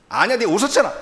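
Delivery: insistent rebuttal. Retold or imitated. God insisting, quarrel replay.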